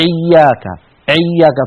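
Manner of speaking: إياك with the hamza pressed toward an ain sound; إياك with a retching ain-like onset. Shown as a demonstration. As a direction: choke the hamza of إياك from the throat. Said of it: "فيضغط على الهمزة و-، ويضغط على مخرج العين".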